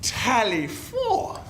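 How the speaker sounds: calling out. Acted. Riding off, calling out.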